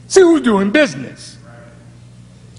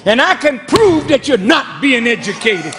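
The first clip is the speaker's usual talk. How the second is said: raised preaching voice; 4 semitones higher than usual. Real, not acted. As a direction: raise your voice at the congregation. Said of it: "Excuse me for raising my voice".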